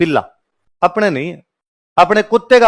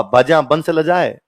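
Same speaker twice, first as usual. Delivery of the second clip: slow recited verse; 3 semitones lower, much slower than usual. Acted. Verse line recited slowly.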